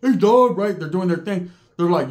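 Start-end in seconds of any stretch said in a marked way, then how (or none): 0.0-0.6 high hooting dog-like calls; woofing. Retold or imitated. Bulldogs on the tier taunt the newcomer, woofing. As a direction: imitate a gang barking from the cells. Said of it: "They're woofing".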